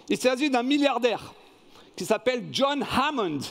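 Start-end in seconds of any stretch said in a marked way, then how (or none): 2.5-3.4 name pronounced with an American accent. Shown as a demonstration. Quiz host naming a film's billionaire, American accent. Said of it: "mon accent américain, il est bon".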